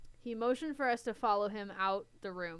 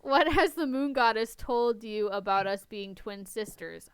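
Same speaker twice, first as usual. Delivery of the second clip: disgust; 2 semitones higher, 7 dB louder than usual. Acted. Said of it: "I asked in disgust".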